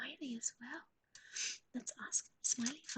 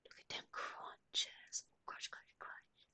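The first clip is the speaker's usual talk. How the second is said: very soft, slow whispery murmur; whispered admiration; 8 dB quieter, slower than usual. Real, not acted. Owner watches the dog crunch, whispered admiration. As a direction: whisper it, dwelling on the crunch sounds.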